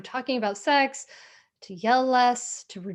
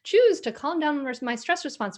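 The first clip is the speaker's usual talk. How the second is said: higher, louder mock self-important voice; smug ego voice; 3 semitones higher, 4 dB louder than usual. Inner ego boasting it can just calm down, mock smug. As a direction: play the ego that thinks it's special. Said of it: "ego that says".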